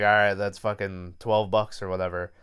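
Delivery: lightly voiced southern accent. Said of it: "I'm giving them a southern accent".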